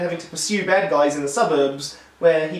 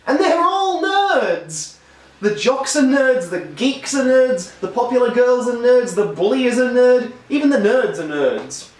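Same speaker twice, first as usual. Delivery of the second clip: much higher and louder, slow delighted exclaim; excited; 6 semitones higher, 3 dB louder than usual. Real, not acted. Reviewer delighting in the nerdy cast, excited high exclaim. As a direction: gush it out like great news. Gleeful reveal everyone is nerds.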